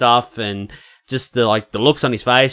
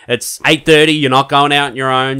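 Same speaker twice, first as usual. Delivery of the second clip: lightly voiced firm dad, a bit louder; stern dad; 3 semitones higher, 5 dB louder than usual. Dad telling his teenage daughter she's staying in, mildly stern. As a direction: lay down the law, mildly acted. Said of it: "the dad conversation with her".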